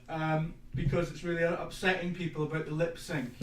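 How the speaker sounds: ordinary talk, nothing marked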